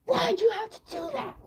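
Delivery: high, whiny protest; whiny complaint. Retold or imitated. Complaining to him in public, high and whiny. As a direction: whine it like a wronged kid.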